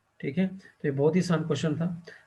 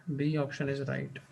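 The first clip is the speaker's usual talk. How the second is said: slow confirming repeat; 3 semitones lower, 7 dB quieter, much slower than usual. Shown as a demonstration. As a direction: repeat it slowly and more softly, B stretched out. (धीमे और हल्के स्वर में दोहराना)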